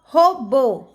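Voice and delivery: Robô loud, with a long BÔ; teacher's demo, Robô stressed at the end; stressed last syllable. Shown as a demonstration. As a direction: punch the final BÔ of Robô. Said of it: "bo é a sílaba forte".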